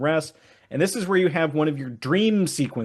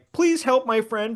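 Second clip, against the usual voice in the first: put-on begging creature voice, pitched higher; 8 semitones higher than usual. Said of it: "Jumpluff's been begging for help".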